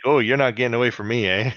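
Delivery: quick Canadian tough-guy line; fast, threatening Canadian voice; light Canadian accent, fast. Retold or imitated. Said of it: "my Canadian voice guy".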